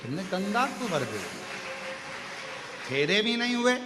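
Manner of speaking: demon Tarka humbly pleading with Shiva for death and union; humble demon pleading. Acted.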